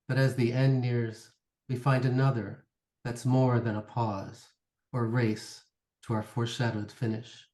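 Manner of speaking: measured recital in short, spaced phrases; poem reading. Acted. Poet reads poem about puzzles with a partner, measured recital. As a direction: read it phrase by phrase, settling down at the close.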